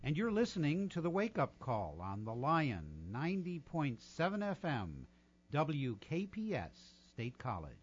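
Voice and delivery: smooth station ID read; old radio voice. Shown as a demonstration. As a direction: announce it like a veteran DJ. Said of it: "In my old radio voice".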